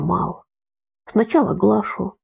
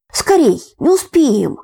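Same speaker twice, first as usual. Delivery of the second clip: urgent shout; 8 semitones higher, 5 dB louder than usual. A narrator's reading. Girl urging, fleeing.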